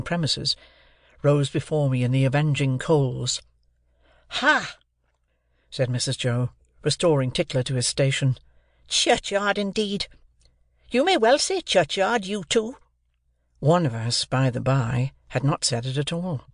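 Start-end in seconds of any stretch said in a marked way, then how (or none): 4.3-4.8 put-on a harsh sister berating a boy; scolding sister. A narrator's reading. Mrs Joe scoffs. 8.9-12.8 put-on a harsh sister berating a boy; scolding sister. A narrator's reading. Mrs Joe scolds.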